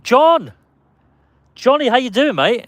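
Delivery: put-on high-pitched call to a supposed old mate; mock familiar greeting. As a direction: hail a stranger like you know him. Greeting a stranger as a prank.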